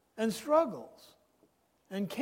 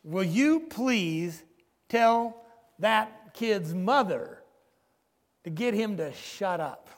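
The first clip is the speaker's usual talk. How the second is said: slow, louder, exasperated demand, retold; angry demand; 3 dB louder, slower than usual. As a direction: lean on each word like a fed-up passenger, mock anger. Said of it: "The guy gets angry and he says".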